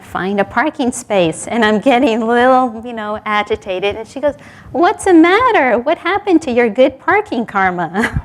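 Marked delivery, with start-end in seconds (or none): 4.7-8.2 playful high jab, then a laugh; teasing friend. Retold or imitated. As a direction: needle her about her karma. Friend teasing about parking karma.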